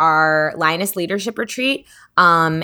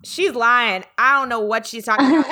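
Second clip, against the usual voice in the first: higher mock old man voice; grandpa denying; 6 semitones higher than usual. Grandpa waving off the cousins, in a higher mock voice. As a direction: brush it off as grandpa would. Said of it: "And he'll be like".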